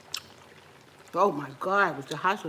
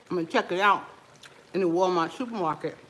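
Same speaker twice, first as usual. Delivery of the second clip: mouth full. Real, not acted. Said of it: "talking with my mouth full".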